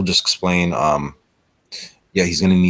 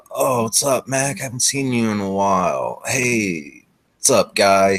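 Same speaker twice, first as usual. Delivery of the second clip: put-on higher, friendly young dude; young guy voice; 5 semitones higher, slower than usual. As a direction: greet an old buddy, upbeat. GM voices young man Gene.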